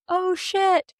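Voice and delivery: high-pitched alarmed shout, last word stretched; hammed-up panicked cry to brace; acted yell. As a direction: yell a warning to the crew. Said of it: "Lucien yells".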